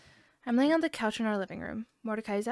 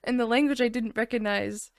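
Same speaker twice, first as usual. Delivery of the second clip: whispering; 6 dB louder than usual. Acted. Whispered slow.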